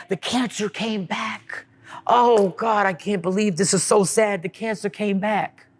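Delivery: hushed imitation of sorrowful sympathy; mock sad pity. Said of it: "that's exactly what they say".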